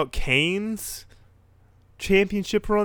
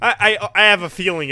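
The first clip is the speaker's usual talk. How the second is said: laughing; 7 semitones higher, 9 dB louder than usual. Real, not acted. Laughing while starting to speak.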